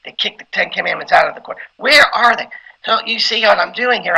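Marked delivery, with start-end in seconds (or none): 0.0-2.5 emotional preaching. Shown as a demonstration. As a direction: stir the congregation with a little rage. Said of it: "I could get emotional in that way".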